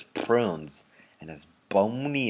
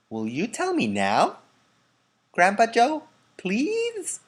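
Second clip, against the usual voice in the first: put-on much higher pleading boy voice; a boy begging for a story; high eager child plea; Charlie pleading; 13 semitones higher, slower than usual. A narrator's reading.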